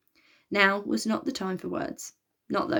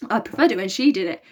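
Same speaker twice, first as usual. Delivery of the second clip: hoarse, croaky voice; croaking; 6 dB louder than usual. Acted. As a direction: croak it out weakly. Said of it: "croaked Elliot".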